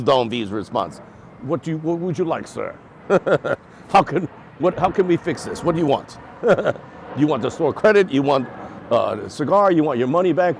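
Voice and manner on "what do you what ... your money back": louder, higher, laughing through the owner's offers; a shop owner's offers, laughed out by the amused customer; laughing quote. Retold or imitated. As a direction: giggle while voicing the eager owner.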